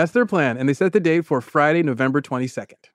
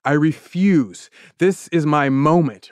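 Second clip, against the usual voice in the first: slow, weighty vow; mock determination; slower than usual. Barry refusing to give up on the dream, mock-resolute. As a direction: declare it slowly, imitating a stubborn dreamer.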